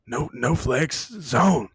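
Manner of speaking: drawn-out lightly voiced old man; Bill Simmons impression. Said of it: a request for his best impression of a song by Bill Simmons.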